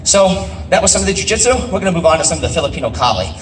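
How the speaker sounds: panting between words after sparring; winded, talking while catching breath. Real, not acted. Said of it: "while I'm nice and out of breath from that".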